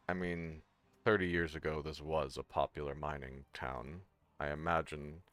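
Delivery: low, hushed aside, not a true whisper; whispering to Cal. Pretend. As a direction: lean in and confide quietly. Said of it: "I'll whisper to Cal".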